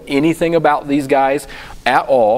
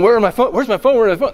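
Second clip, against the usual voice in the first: frantic; 7 semitones higher, faster than usual. Retold or imitated. Frantic search for his phone.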